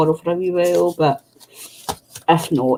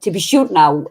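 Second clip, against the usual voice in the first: mock Irish accent; 3 dB louder than usual. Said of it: "we slag Michelle and say".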